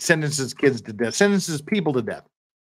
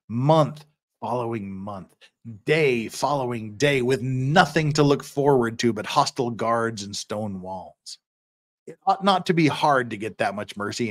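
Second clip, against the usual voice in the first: deliberate oratory, slowing on repeated units; courtroom plea read aloud. Acted. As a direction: weigh out each span of time.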